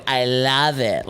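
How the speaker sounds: slow, drawn-out I love it; slow camp imitation; mocking impression. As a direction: stretch it out like a camp friend. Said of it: "doing impressions of me".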